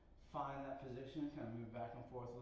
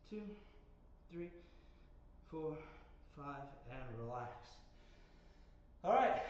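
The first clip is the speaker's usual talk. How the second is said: out of breath. Real, not acted. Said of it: "I am a little out of breath there".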